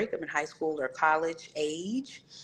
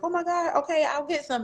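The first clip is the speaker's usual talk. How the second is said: giving in; 11 semitones higher than usual. Retold or imitated. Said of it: "I was like".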